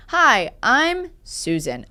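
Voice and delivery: slow, even robocall voice; a hint of a canned recording; robotic recording. Caller introducing herself, lightly robotic and slow. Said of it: "so it sounds like a recording".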